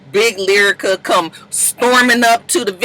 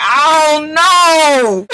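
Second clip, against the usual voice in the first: very slow, drawn-out helpless whine; laughing mock shrug; 5 semitones higher, much slower than usual. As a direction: stretch out a clueless excuse through laughter. Safari's helpless answer.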